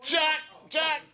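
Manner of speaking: short, very high whoops; playful high-pitched yelp; excited calling out. Pretend. Host celebrating a correct guess, calling out high and excited.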